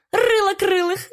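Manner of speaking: very high, snickering sparrow; sly nasal snickering whisper. A narrator's reading. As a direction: giggle the taunt slyly. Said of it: "захихикал воробушек".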